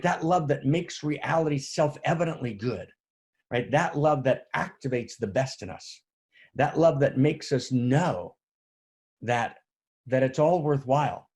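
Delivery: preacher swelling on love; fervent preaching. Real, not acted. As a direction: build it to a rapturous peak. Sermon building to climax.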